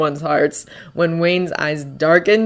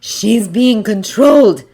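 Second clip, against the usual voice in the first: snapped; 4 semitones higher, 3 dB louder, slower than usual. A narrator's reading. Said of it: "Natasha snapped".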